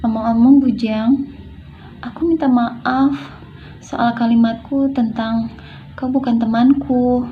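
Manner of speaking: mildly guilt-laden apology, pitched a little up; guilty. Shown as a demonstration. Apologising to Bujang for saying you're not my friend, guilty. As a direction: apologise as if you feel bad about your words. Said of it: "intonasi merasa bersalah".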